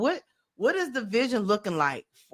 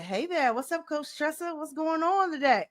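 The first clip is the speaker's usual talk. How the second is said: imitated AI assistant Reggie; 9 semitones higher than usual. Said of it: "He said".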